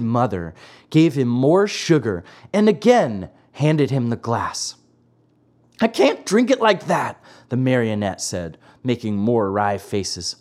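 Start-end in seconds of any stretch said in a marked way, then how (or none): 5.8-7.2 high, whiny puppet voice; Pinocchio's pitched-up grumble; childish complaint. A narrator's reading. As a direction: protest like a fussy child. Pinocchio making wry faces, refusing.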